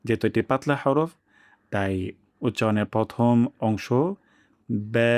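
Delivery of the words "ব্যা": ব্যা with a thin front vowel; ব্যা light, not broad; light correct ba. Shown as a demonstration. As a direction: model the medium ব্যা. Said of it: "এভাবে উচ্চারণ হবে".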